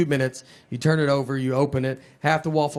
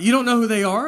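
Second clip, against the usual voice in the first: shocked disbelief; 6 semitones higher, 3 dB louder than usual. Retold or imitated. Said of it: "He's like".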